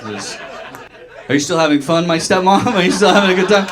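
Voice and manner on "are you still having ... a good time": mock cheerful. Mock question to stepmom.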